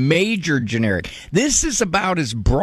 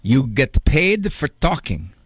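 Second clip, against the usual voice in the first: Italian grandfather; slower than usual. Retold or imitated. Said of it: "in his broken Italian accent".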